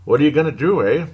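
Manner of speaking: a light put-on Canadian accent, rising on do. Sports host shrugging off a loss, in a mock Canadian accent. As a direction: toss in a playful hint of Canadian accent. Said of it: "Pardon my Canadian accent there".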